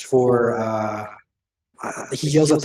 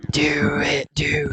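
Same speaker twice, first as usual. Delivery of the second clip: whisper. Real, not acted. Player eggs on in whisper.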